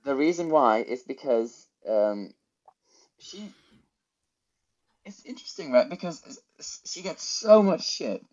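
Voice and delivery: talking with a mouth guard in; words round a mouth guard. Real, not acted. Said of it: "I still have my mouth guard in".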